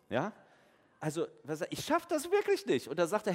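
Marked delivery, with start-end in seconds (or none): 1.7-2.9 much higher, pleading cry of I can't; a mock-whiny Moses giving up; hammed-up hopeless plea; despairing Moses.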